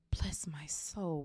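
slow awed whisper. Acted. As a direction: breathe it in awe. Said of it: "whispered the old bartender".

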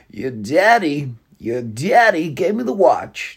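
very slow, drawn-out mock Walken; half-hearted Walken impression, slowed right down; second Christopher Walken try. Shown as a demonstration. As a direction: stretch each word like a lazy Walken. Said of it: "That's a terrible impression".

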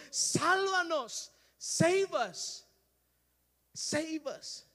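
slow, pleading cry fading at the end; desperate crying out. Acted. Crowd pleading with Jesus, desperate cry. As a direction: beg him to save them. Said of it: "Desperately crying out".

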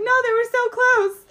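very high, giggling through it; squeaky stifled laughing; laughing whisper. Retold or imitated. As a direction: hold in the laughter and fail. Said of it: "she's like".

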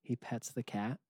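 normal talking voice

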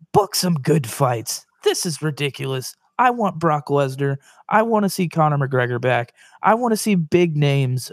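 mock promo, pointed call-out; trash-talk the boss, promo style; wrestling promo. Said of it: "I'm gonna cut a little promo".

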